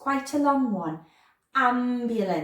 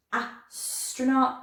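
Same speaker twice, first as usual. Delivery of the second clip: slow sounding out; 3 semitones higher, much slower than usual. Shown as a demonstration. Teacher sounding out a word for children: slowly. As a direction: stretch Astronaut out slowly, the A drawn long. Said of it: "I can hear that astra sound".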